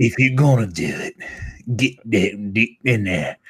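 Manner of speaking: teasing demo of a British accent. Shown as a demonstration. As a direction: clip the syllables in a mock British accent. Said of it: "you gotta skip a couple syllables".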